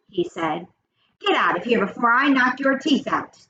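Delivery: lively, expressive read-aloud with character quotes; read-aloud storytelling. A narrator's reading. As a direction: read the chapter to children, lifting the dialogue. Reads story aloud to children.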